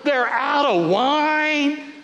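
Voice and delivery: very slow, sighed out with weary disbelief; sighing. Retold or imitated. Disciples at the gate hearing the bad news, slow sigh. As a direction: let the words deflate on a sigh. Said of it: "You can just hear the sigh".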